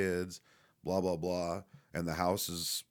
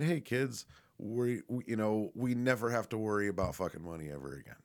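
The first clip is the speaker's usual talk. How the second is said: higher, joyful announcement; excited; 4 semitones higher than usual. Pretend. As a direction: announce the big news to the kids. Imagined homecoming announcement.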